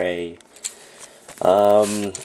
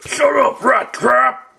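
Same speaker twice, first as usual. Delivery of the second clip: shrill high shout of shut up; high angry yell; 4 dB louder, slower than usual. Pretend. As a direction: snap at him loudly and high. Skit character snapping.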